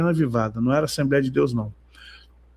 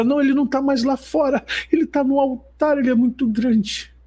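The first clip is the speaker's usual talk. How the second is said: much higher, awestruck mock plea; imitating the crying sister; 8 semitones higher than usual. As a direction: voice her tearful awe, high. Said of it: "ela vem chorando".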